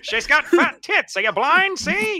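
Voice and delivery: high laughing outburst. Real, not acted. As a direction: blurt it through laughter. Joking with laughter.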